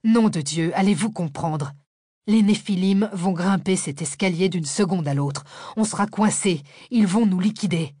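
urgent fugitive shouting at the professor. Acted. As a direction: raise the voice to make them see. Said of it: "haussa le ton".

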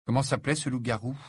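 quick, urgent question; hurried. Acted. Harry urgently asks the werewolf's name, hurried. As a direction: ask it in a rush. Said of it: "demanda précipitamment Harry".

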